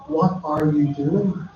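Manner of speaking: each word drawn out very slowly, x0.5; really slow. Shown as a demonstration. Volunteer in Ghana showing how he slowed his speech for locals, very slow. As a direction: spell it out slowly, like to someone learning English. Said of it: "I had to learn to talk really slow there".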